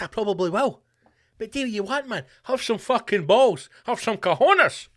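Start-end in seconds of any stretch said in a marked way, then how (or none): 2.4-4.9 drawn-out emphatic urging. Acted. Urging listeners to be bold.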